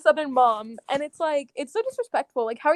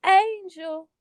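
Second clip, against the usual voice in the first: imitated Southern mom calling out, higher; 5 semitones higher than usual. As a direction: call out in a put-on country twang. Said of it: "you'll be like".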